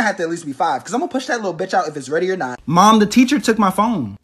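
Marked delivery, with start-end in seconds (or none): 2.7-4.2 put-on whiny kid. Kid complaining to mom.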